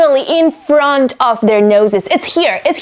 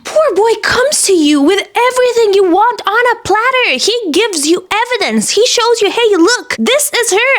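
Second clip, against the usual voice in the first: higher, indignant rant; worked up; 5 semitones higher than usual. Real, not acted. Reader ranting at the sheriff for ignoring the boy, indignant. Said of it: "getting so worked up".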